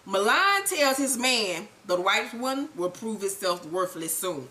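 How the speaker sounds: lightly voiced icy boss; cold Milan. Recapper voicing Milan giving orders, low and slow. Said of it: "Milan then says to Ghost".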